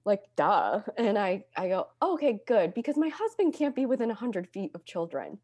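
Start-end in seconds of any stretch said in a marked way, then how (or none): 2.0-5.4 deadpan joke. Retold or imitated. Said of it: "I said it so dead face".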